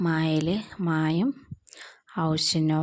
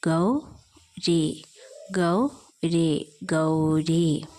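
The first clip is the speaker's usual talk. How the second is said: ഗൗ, രീ, then ഗൗരി, each held slowly; slow sounding out; much slower than usual. Shown as a demonstration. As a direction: join the syllables slowly for a child. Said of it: "ഗായും ഔ ചിഹ്നവും ഗൗ".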